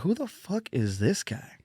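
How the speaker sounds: whispered aside, slow and high. Retold or imitated. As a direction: hiss it to a friend in disbelief. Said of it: "And they're like".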